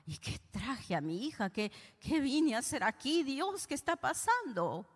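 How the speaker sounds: a hint of panic as she prays; frightened mother in a psychiatric ward, rising; trembling fear. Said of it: "mi mamá dice que temblaba".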